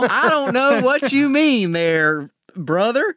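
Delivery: high, slow country hick drawl. Acted. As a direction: play up the farm-boy hick. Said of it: "This is a voice he uses all the time".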